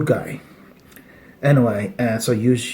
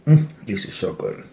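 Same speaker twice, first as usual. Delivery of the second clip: mouth full; 2 semitones lower than usual. Real, not acted. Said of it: "with my mouth full".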